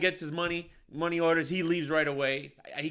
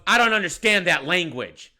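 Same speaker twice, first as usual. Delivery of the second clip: louder, slowed-down mock disdain; retold scornful retort; 6 dB louder than usual. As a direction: drag it out, imitating a haughty heckler. Acted mocking retort in quarrel.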